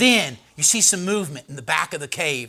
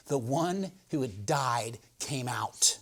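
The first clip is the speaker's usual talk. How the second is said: whispered slow; 4 semitones lower, 7 dB quieter, much slower than usual. Shown as a demonstration. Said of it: "repeated whispered".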